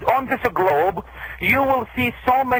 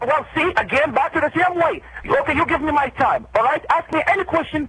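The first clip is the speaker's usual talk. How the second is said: higher, exasperated pushback; pitched up, demanding his turn to speak; 6 semitones higher than usual. Real, not acted. Imam to the interrupting host, exasperated and pitched up.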